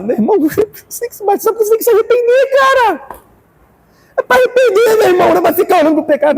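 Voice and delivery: high fervent preacher's plea; fervent exhortation. Real, not acted.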